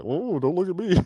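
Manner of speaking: high startled yelp at the mirror; mock startled. Host recoils from his own reflection, startled. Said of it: "was like".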